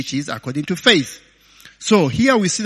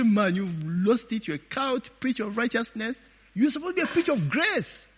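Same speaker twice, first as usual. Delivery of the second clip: mock objection; 6 semitones higher, 5 dB quieter, faster than usual. Voices scornful objectors to preacher.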